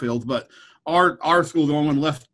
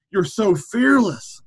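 higher, drawn-out mock admiration; gushing admirer; 5 semitones higher, 3 dB louder, much slower than usual. Stranger at a conference praising the speaker, gushing. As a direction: imitate an awed fan, stretching the words slowly.

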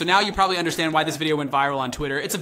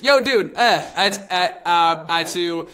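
mock dude voice; 4 dB louder, slower than usual. Mock dialogue between kids.

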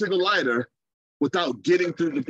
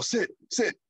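"Sit, sit." said a bit higher with authority; firm command; 4 semitones higher than usual. Retold or imitated. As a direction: stand tall and own the word "Sit". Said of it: "he stands as in authority more".

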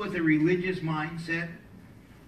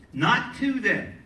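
slow, higher "not to them", leaning on "to"; stress on TO; 5 semitones higher, 4 dB louder, slower than usual. Real, not acted. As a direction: punch "to" as the correction. Contrasts "to" with "in.

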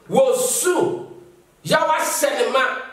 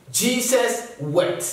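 slow solemn reading; much slower than usual. Shown as a demonstration. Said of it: "Only two words".

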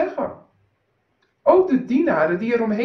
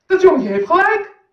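much higher, loud shout; shrieking bystander; 9 semitones higher, 9 dB louder than usual. Acted. Someone in the crowd shrieks agreement, high and loud. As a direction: scream it out from the crowd. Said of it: "Toen gilde iemand".

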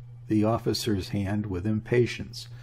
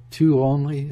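sharp, loud and higher; a startled, raised exclamation; exclaimed in disbelief; 5 semitones higher, 8 dB louder than usual. A narrator's reading. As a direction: toss the question out, shocked. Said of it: "exclaimed Nina".

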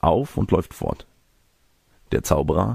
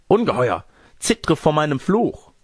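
high, slowing cry of outrage; melodramatic curse; 10 semitones higher, 3 dB louder than usual. Acted. Old lady cursing the monster who threatens her, melodramatic outrage.

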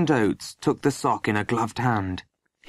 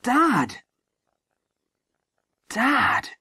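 high-pitched startled "Dad!"; startled cry; 13 semitones higher than usual. A narrator's reading. Boys caught by the sergeant, startled cry. Boy startled by father's arrival.

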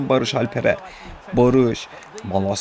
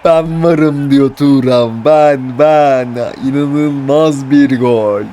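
screaming football commentator; 3 semitones higher, 6 dB louder, slower than usual. Real, not acted. Goal call, drawn out Thuram.

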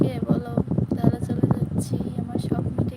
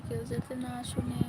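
much softer, hushed so no one overhears; talking softly; 9 dB quieter than usual. Real, not acted. Streamer talking secretly on a live so no one hears, hushed and soft. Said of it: "আমি অনেক আস্তে আস্তে কথা বলতেছি".

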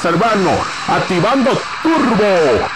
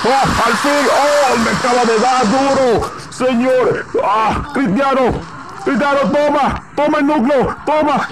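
hyped shouting gamer, higher pitch; raging gamer; 5 semitones higher, much slower than usual. Real, not acted. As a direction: urge the player on, excited.

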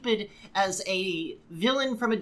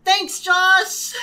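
high, loud mock thanks; sarcastic cheer; 10 semitones higher, 7 dB louder than usual.

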